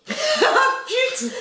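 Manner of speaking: high laughing yell; laughing shriek. Real, not acted. Laughing shriek after her mistake.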